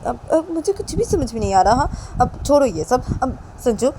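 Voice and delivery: high, loud bossy mother voice; pressing the guest to stay for lunch; mother insisting loudly. Acted. Mummy Sanju को रोकती, ऊँची आवाज़. (ज़ोर से ज़िद करती माँ की आवाज़)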